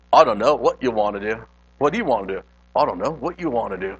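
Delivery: hammed-up mock English accent; a rough stab at an English accent; bad English accent. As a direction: imitate cartoon buzzards with a badly faked English accent. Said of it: "that was my horrible English accent".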